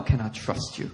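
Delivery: soft whispered plea; whispered question. Acted. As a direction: breathe it close and gentle. Jesus's quiet question to Peter.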